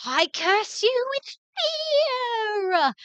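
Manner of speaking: high, dramatic witch voice; witch casting a curse. Acted. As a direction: cast the curse in a high, theatrical voice. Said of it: "and she goes".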